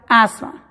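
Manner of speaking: "asma" said plainly az-ma; teacher model; silent th. Shown as a demonstration. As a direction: drop the th in "asma". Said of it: "como si la T H no estuviera ahí".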